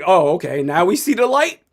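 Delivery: dry mock agreement; sarcastic. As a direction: concede it with a sarcastic eye-roll. Sarcastic reply to critics.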